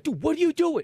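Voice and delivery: high, indignant mock yell; imitated yelling. Concertgoers confronting the hippie, yelling. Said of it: "like, yelling at him".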